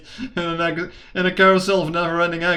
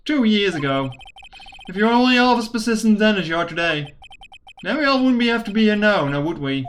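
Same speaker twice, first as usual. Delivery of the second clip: put-on cowboy accent. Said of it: "I'm pretending to be talking like a cowboy".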